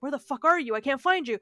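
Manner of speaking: a touch of frantic searching; mildly acted panic. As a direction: imitate a mother calling for her lost child. Mother searches for missing child.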